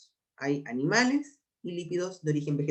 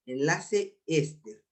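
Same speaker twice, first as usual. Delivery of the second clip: slow dictation; much slower than usual. Shown as a demonstration. Teacher repeats the term slowly so students write it down. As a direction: repeat the term slowly for notes, enlace éster drawn out word by word. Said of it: "con tilde en la E".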